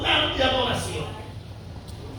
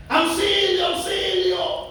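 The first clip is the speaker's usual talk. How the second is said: imitating cries for help; 6 semitones higher than usual. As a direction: cry for help the way she did. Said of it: "los grandes gritos". (grito de auxilio imitado, suave)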